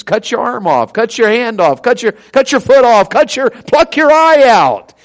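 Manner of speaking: re-enacted sermon, building in pitch and force; wound-up preaching. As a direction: build command by command to a drawn-out finish. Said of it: "I was a little wound up".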